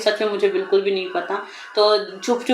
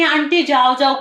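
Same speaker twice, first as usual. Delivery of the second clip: intruder shooing away; 5 semitones higher, 4 dB louder than usual. Retold or imitated.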